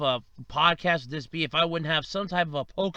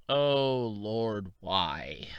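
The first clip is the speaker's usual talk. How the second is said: whispering; 6 semitones lower, 4 dB quieter, much slower than usual. Real, not acted. Disgusted aside about bad CGI.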